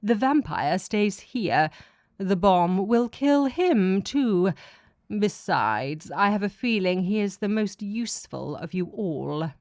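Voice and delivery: slow, lightly voiced god laying down the rule; a hint of an unbending deity deciding a fate; god's decree. God decrees vampire stays.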